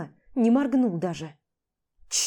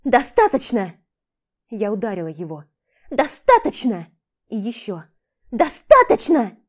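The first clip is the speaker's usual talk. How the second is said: escalating shout; 7 dB louder than usual. Acted. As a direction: yell as you strike. She slaps him repeatedly. (нарастающий крик)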